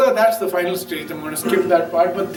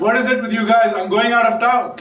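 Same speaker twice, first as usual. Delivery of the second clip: higher, impatient mock retort; exasperated retort; 5 semitones higher, 4 dB louder than usual. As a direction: brush off the silly question, annoyed. Mullah exasperated again.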